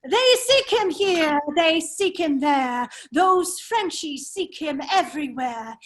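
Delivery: a dandy reciting his own poem, savouring each line; foppish verse recital. Acted. Fop reciting his verse to Chauvelin, hammed-up. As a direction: recite the little rhyme with a showy flourish. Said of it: "I want you to hear my verse".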